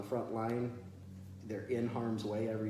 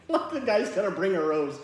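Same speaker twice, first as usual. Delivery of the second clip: loud, higher voice full of laughter; laughing incredulously; 8 semitones higher, 8 dB louder than usual. Real, not acted. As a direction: scoff at the idea while laughing. Laughing at his own story.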